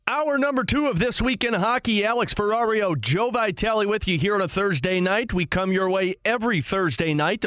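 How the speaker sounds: upbeat sports radio read; radio host intro. Acted. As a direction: welcome listeners back to the show.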